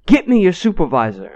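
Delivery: high-pitched mock demand; amped-up customer. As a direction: imitate a worked-up customer making demands. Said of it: "gets amped up and is getting all crazy".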